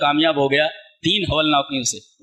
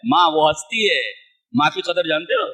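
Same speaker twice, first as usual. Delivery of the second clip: much higher, pleading question; impassioned appeal; 11 semitones higher than usual. Real, not acted. Preacher asking the congregation if they value mothers, impassioned. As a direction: plead with the crowd about mothers.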